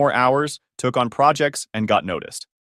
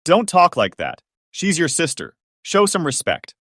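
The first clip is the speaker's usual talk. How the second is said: dad's voice rising; 5 semitones higher than usual. Acted. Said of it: "My dad's voice rose".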